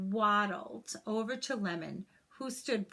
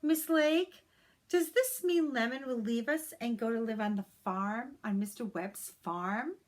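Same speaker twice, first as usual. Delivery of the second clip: put-on worried child; 3 semitones higher than usual. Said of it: "turned to one of worry".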